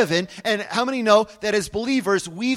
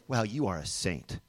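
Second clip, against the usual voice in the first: mumbled compliment; 10 semitones lower, 11 dB quieter than usual. Pretend. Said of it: "Look at each other and you say".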